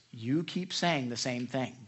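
patient, measured imitation of a gentle pastor; gentle firmness. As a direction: point it out slowly and gently. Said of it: "really usually very gentle with that".

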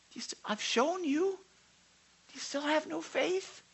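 heartbroken love. Retold or imitated. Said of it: "And he's like".

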